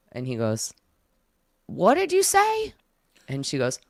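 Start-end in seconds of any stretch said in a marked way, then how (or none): 1.7-2.7 put-on very high, straining old man; hard-of-hearing old man. Deaf old psychic asking her to repeat, high straining voice. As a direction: imitate an old man who can't hear. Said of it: "this little old man who's".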